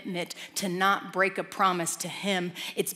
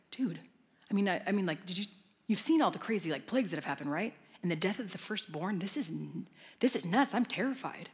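nervous father; 2 semitones lower, 4 dB quieter than usual. Retold or imitated. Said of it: "the one's really nervous".

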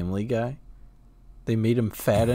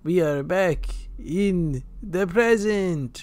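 slow, lightly voiced Richtofen; mock Richtofen line; 5 semitones higher, much slower than usual. Friend mocking cheesy game writing, slow mock line. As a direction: drag out a cheesy scripted line. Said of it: "Richtofen would be like".

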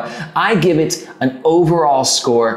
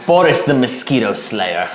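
put-on Russian accent. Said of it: "practice your Russian accent".

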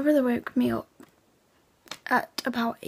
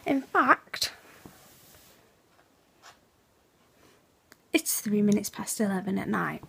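hushed so as not to wake the house; quiet late-night voice. Real, not acted. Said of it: "that's why I'm rather quiet".

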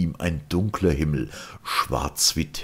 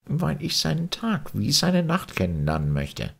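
raised, calm voice of the Martian guide Sirian; patient alien captain explaining, voiced higher; Sirian's voice; 12 semitones higher than usual. A narrator's reading. Sirian explains landing plan. (Sirian, höher und ruhig erklärend)

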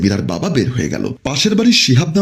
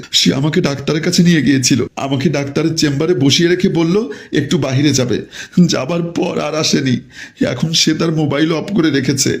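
acted tearful account, pitched up; mildly weepy, higher voice; tearful daughter; 4 semitones higher than usual. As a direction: explain through put-on tears. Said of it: "কান্নাকাটি করা শুরু করে দিয়েছে".

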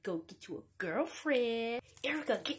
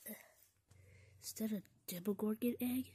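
whispering; 6 dB quieter than usual. Acted. Sneaking in a dark cave.

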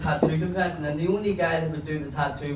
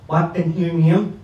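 slow careful speech; 5 dB louder, slower than usual. Retold or imitated. Deaf friend asks for lip-reading.

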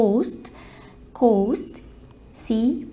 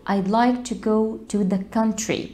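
slow, careful teacher reading; slow model sentence; much slower than usual. Shown as a demonstration. Teacher models the country phrase slowly. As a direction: read it slowly so they catch the. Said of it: "بسمع الناس يقول the country".

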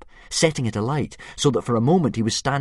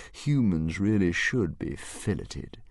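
thoughtful dragon; 2 semitones lower, 3 dB quieter than usual. Acted. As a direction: muse it like a gourmet monster. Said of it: "continued the dragon thoughtfully".

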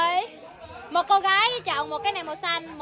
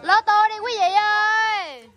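bingo caller; 4 semitones higher, slower than usual. Acted. Announcing bingo to the family.

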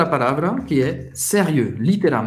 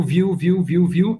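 imitating Brazilians; 3 semitones higher than usual. Shown as a demonstration. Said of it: "Os brasileiros gostam de falar viu".

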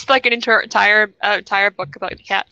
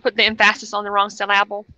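"emphasis" as em-FASS-is, "syllable" as sil-LAB-le; "emphasis" and "syllable" deliberately stressed on the second syllable; joking misplaced stress. Shown as a demonstration. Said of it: "yeah, like that".

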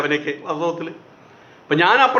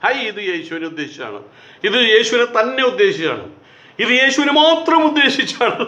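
mock wailing; 3 semitones higher than usual. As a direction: build up a hammed-up lament. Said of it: "നിലവിളി ആരംഭിച്ചു".

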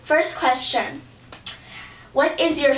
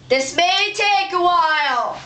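calling out; 4 semitones higher than usual. Acted. Calling out while searching backstage.

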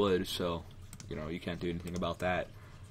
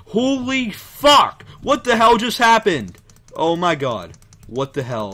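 very high, very loud panicked scream; real fright, screaming high; startled scream; 10 semitones higher, 15 dB louder, slower than usual. Real, not acted. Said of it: "You can tell I'm really nervous".

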